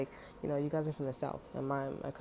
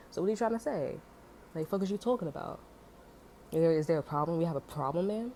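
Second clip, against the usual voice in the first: angry confrontation. Retold or imitated. Retelling the confrontation with the white woman, heated. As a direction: confront her hard, voice climbing.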